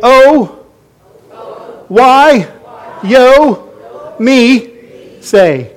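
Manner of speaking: high, loud, drawn out Elema words "Oh, why, yo, me, say"; a sung-out lament phrase from Nigeria; Elema phrase demo. Shown as a demonstration. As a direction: teach "Oh, why, yo, me, say" slowly, each word apart and loud. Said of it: "I'm gonna teach it to you".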